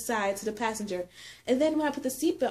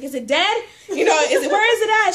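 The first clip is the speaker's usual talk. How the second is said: retold panic; 9 semitones higher, 10 dB louder than usual. Asking if spider is dead.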